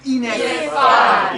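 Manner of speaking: very loud, high "Ineffabile"; bright, wide vowels in "Ineffabile", projected high; sideways-mouth Italian. Shown as a demonstration. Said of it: "open your mouth sideways".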